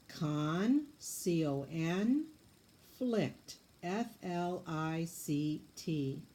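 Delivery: "Con" then C O N, "flict" then F L I C T, slow letters; scooping syllables. Shown as a demonstration. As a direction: split "Conflict" and spell each syllable. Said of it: "Let's scoop it".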